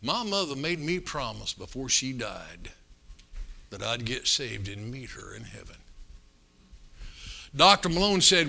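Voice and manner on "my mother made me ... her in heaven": understated retelling of a tearful confession; tearful, lip quivering. Retold or imitated. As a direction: begin soft, sink lower and slower. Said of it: "with his lip quivering and a tear".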